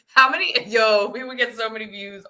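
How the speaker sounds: quick, eager burst with a laugh; very excited. Real, not acted. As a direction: gush as the idea takes hold. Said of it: "Sorry, I'm very excited".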